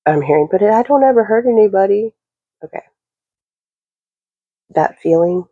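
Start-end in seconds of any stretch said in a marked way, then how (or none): 0.5-2.1 high, swooping innocent plea; mock innocent protest. Mischievous one answering the reader, mock innocent protest.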